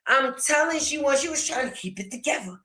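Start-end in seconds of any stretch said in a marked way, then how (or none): 1.2-2.6 mock restraint. Describing cousin holding tears.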